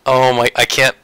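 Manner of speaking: shaky with adrenaline; trembling hands, trembling voice; adrenaline shakes. Real, not acted. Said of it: "my hands are shaking right now".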